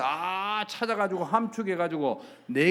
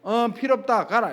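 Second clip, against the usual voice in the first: high, loud acted dismissal; curt refusal; 6 semitones higher, 7 dB louder than usual. Shaman answering the pleading visitor, loud dismissive refusal. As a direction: imitate someone sending a caller away.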